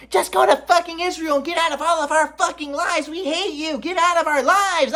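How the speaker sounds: high shrill mock of mom. His mom telling him to leave, high mocking voice. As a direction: sneer it in a high falsetto. Mom's hostile words, mocked.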